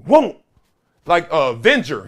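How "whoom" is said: punch whoosh. Retold or imitated. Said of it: "and then he'll go".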